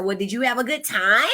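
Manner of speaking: lilting question rising on TIME; leading question. Shown as a demonstration. Mom asking her toddler daughter, leading with her voice. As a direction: ask it hopefully, lifting "time" at the end. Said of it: "That with my voice is leading".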